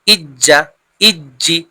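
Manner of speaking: "ইজ্জা, ইজ্জি" with the জ held double; doubled consonant. Shown as a demonstration. Teacher showing the doubled letter, consonant pronounced twice. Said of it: "দুবার উচ্চারণ হচ্ছে".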